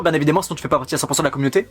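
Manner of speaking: déballe ça à toute vitesse; débit très rapide. Shown as a demonstration. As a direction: mitraille la phrase d'un trait. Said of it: "Je parle très vite, oui". (débit de pub accéléré)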